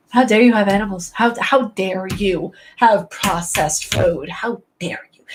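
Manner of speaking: mock indignation, spelled out word by word; over-the-top vegan outrage. Former vegan mocking their old self, over-the-top indignant. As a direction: play up being deeply offended. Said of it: "an over-the-top reaction".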